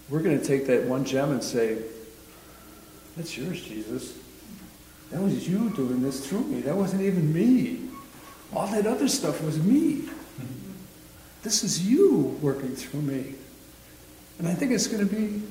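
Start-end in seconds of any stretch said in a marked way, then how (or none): 3.2-13.3 humble offering. Acted. Believer offering the last gem to Jesus, humble and earnest. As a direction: hand the credit over in earnest wonder.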